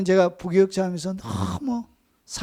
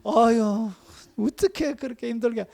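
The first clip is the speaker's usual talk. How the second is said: much softer, sweetly sympathetic; gentle soothing; 3 dB quieter than usual. Retold or imitated. Seoul pastor comforting a tired assistant, softly sympathetic. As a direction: coo over him like a kind pastor. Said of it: "너무 부드러운 거예요".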